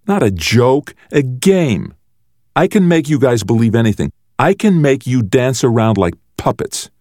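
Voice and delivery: high-pitched crowing boast; gloating brother. A narrator's reading. Brother boasts he can make them believe anything, gloating. Peter boasts to his siblings.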